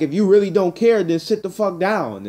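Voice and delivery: a mild mock yell telling her to sit down; retold angry retort. His retort in the argument.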